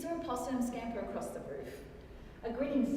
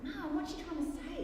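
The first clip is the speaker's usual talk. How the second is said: lightly voiced child, pitched up; young son; 6 semitones higher than usual. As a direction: ask mum like a puzzled child. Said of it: "Then he spoke suddenly".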